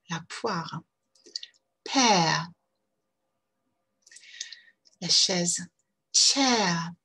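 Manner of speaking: Bear, Pear, Chair and Hear each gliding into uh; English diphthongs with schwa. Shown as a demonstration. Teacher drilling diphthongs for French learners. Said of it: "La première diphtongue".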